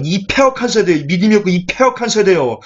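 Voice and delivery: mildly exasperated rebuke; retold scolding. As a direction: act out a teacher reproaching his followers. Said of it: "막 꾸짖".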